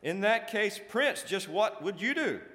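loud, high, hammed-up complaint; exasperated protest. A narrator's reading. Jealousy defending failed efforts to the prince, exasperated. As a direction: plead your case emphatically to a boss.

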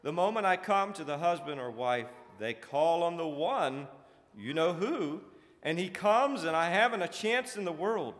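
loud, high, hammed-up complaint; exasperated protest. A narrator's reading. Jealousy defending failed efforts to the prince, exasperated. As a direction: plead your case emphatically to a boss.

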